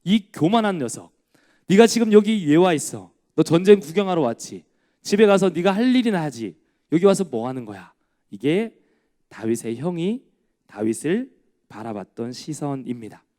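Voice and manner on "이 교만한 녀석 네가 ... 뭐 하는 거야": put-on louder, older brother's stern telling-off; scolding rebuke. Eliab scolding David for coming to the battlefield, stern rebuke. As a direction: scold the arrogant little brother. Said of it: "호통을 칩니다".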